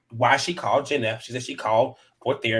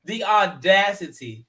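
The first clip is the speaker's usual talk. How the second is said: mock outrage; 5 semitones higher than usual. Real, not acted. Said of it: "And I said".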